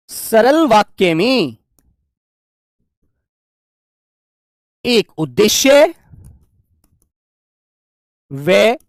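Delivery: very slow, word by word with long pauses; spaced-out teacher dictation. Shown as a demonstration. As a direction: dictate it so the class can write. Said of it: "जैसे लिखेंगे".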